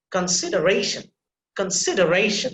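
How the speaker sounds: "Consideration" with a little stress on the secondary syllable. Shown as a demonstration. Teacher modelling a word for the class, secondary stress in "Consideration". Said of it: "a little bit of stress there".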